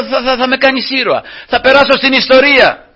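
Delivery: high, eager boast of becoming a hero; excited defiance. Retold or imitated. Preacher answering his threatener, high and eager. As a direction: throw it back at him, thrilled.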